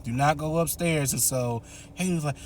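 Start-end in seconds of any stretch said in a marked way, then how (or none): 0.0-1.1 stern warning. Retold or imitated. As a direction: spell out the rule firmly. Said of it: "she's like".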